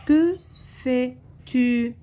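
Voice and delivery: high, loud questioning tune; question intonation. Shown as a demonstration. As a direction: ask it with a big rising lift.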